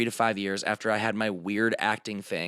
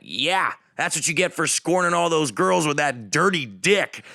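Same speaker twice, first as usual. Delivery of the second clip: drunk heckler impression; 5 semitones higher, 4 dB louder, slower than usual. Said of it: "She at one point went".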